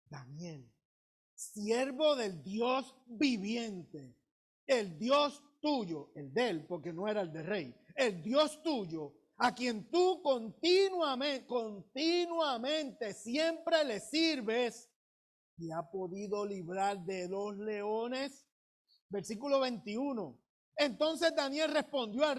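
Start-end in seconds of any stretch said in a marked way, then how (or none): 0.0-6.1 slow, mournful calling of Daniel's name; a king calling into the pit, slow and grieving; sad voice. Acted. King calls Daniel into the lions' pit, slow and sad. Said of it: "con voz triste". 8.0-18.5 sad voice. Acted. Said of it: "con voz triste".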